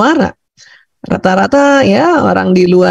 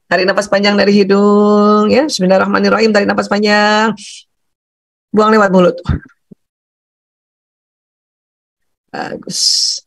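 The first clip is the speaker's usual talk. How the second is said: guided breathing. Shown as a demonstration. Teacher calming a panicking child before study, guided breathing. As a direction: lead them through a long breath.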